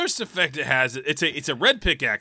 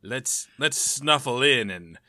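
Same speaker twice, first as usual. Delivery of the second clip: villain voice; 5 semitones lower than usual. Retold or imitated. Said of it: "and I was like".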